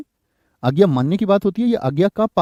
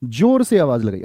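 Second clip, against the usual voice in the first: 1 slow corrected phrase; 4 semitones lower than usual. Shown as a demonstration. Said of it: "आवाज लगेगी कैसे?".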